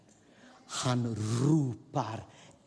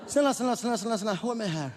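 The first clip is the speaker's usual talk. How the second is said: pleading through a laugh; laughing plea; 9 semitones higher, much faster than usual. Real, not acted. Preacher begging the congregation to hear him, laughing. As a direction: beg them to listen while laughing.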